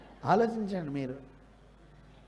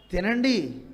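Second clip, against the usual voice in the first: raised sarcastic tone; much slower than usual. Shown as a demonstration. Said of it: "అదే స్వరం పెంచి చెప్పండి".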